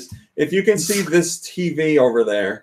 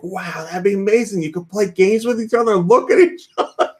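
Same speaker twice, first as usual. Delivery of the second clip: marveling, pitch climbing into a laugh; mock wide-eyed amazement; retold wonder; 5 semitones higher than usual. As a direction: gush like an amazed kid, lightly hammed. Retold childhood wonder at magazine cover.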